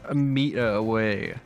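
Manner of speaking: venting at the game, swearing; raging gamer complaining mid-play; frustrated rant. Real, not acted.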